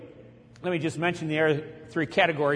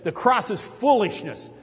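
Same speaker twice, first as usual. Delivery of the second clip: retold scream; 5 semitones higher, slower than usual. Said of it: "He just started screaming".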